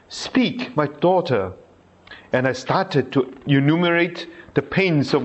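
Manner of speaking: measured reading of a saint's diary; devotional reading. Acted. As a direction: read it aloud prayerfully. Reads Faustina's diary entry.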